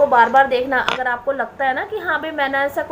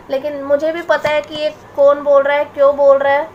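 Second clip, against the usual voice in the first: angry; 6 dB louder than usual. Real, not acted. Confronting relatives who insulted her.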